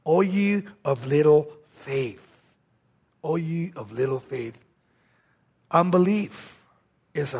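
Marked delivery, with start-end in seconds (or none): 0.0-2.2 slow, soft rebuke of little faith; a gentle, sorrowful chiding. Acted. Jesus gently chides his frightened disciples, softly. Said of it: "he said this to them". 3.2-4.6 hushed echo. Shown as a demonstration. Preacher echoes the rebuke to the congregation, hushed. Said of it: "preacher repeats it softer".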